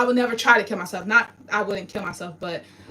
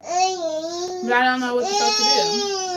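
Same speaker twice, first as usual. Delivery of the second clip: high, slow, broken sobbing; 7 semitones higher, slower than usual. Real, not acted. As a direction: sob it out in despair. Crying in despair.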